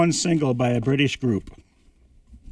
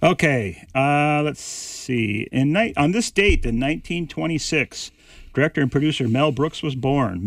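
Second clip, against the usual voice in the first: hoarse voice. Real, not acted. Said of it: "Starting to lose my voice".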